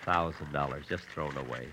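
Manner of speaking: sad moan. Acted. Moaning in bed over money.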